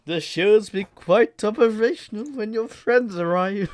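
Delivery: loud, rising villain gloat; hammed-up emperor speech; imitating a robed emperor. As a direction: play the Sith Lord taunting his prisoner, slowing down at the end. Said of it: "sitting there in the fucking robe going".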